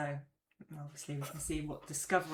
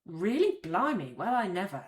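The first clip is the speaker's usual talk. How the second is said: wide-eyed disbelief, really jumping louder; surprised; 4 dB louder than usual. Shown as a demonstration. Teacher showing learners how surprise sounds, amazed. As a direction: caught off guard and amazed. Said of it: "the tone and the kind of facial expression".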